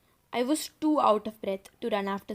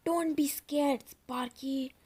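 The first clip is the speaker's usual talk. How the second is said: croaked; 4 semitones higher, slower than usual. Acted. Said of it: "I croaked".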